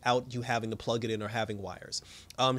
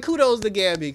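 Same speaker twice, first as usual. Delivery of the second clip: much higher, louder burst of delight; excited praise; 7 semitones higher, 7 dB louder than usual. Real, not acted. Reviewer cheering for Gambi's win, high excited burst. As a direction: cheer him on with a squeal. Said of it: "I was like".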